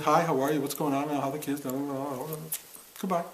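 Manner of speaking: imitating perfunctory pleasantries, tailing off into blahs; mock small talk. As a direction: rattle through the empty greetings like a routine. Mimics empty family small talk.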